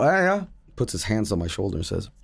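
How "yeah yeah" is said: higher-pitched, hesitant answer; meek reply. Retold or imitated. Streamer answering the intruder in his dream, meekly.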